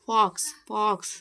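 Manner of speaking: ಫಾಕ್ಸ್ said twice with an open vowel; open "o" demonstration. Shown as a demonstration. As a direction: model ಫಾಕ್ಸ್ for a class to copy, open "o". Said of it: "ಅಂತ pronunciation ಆಗ್ತಾ ಇದೆ".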